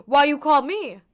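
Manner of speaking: loud, slow, laughing why you call me; mock accusation. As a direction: tease the chat playfully. Playful mock accusation to chat.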